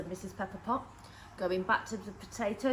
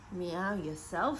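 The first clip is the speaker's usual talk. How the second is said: slow, lower, teasing reply; lightly voiced old lady; 6 semitones lower, slower than usual. Old lady answering her cat, slow and lower. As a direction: tease the cat back slowly.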